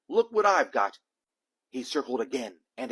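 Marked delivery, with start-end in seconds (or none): 0.1-1.0 high, loud teasing call; shout. A narrator's reading. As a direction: call out to lure the cat. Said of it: "he shouted".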